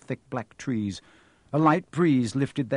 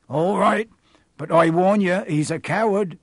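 higher, louder rustic giant; disapproving groundskeeper; 6 semitones higher, 6 dB louder than usual. Acted. Groundskeeper dismissing the caretaker, indignant. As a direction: push back in a broad country accent.

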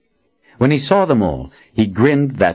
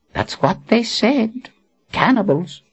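grave wizard. Acted. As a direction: confirm it gravely. Zed confirms.

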